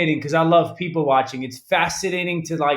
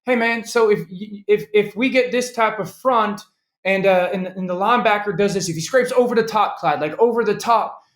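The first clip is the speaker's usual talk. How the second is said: higher, twangy Southern quarterback impersonation; Peyton; 5 semitones higher than usual. Acted. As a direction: quiz the coach insistently in a Southern twang. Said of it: "with that kind of Southern twang".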